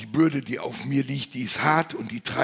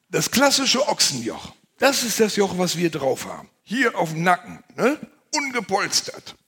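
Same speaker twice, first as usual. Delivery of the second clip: much higher and louder, excited; animated showing; 7 semitones higher, 7 dB louder than usual. Real, not acted. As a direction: show it off with big energy.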